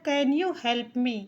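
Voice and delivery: slow, careful teacher reading; drawn-out demo phrase; slow model sentence. Shown as a demonstration. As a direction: say it slowly so students follow. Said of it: "तो हो गया".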